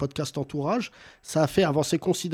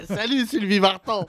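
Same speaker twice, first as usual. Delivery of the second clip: higher put-on rock-star greeting; rock-singer impression; 6 semitones higher than usual. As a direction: greet like a hazy old rocker.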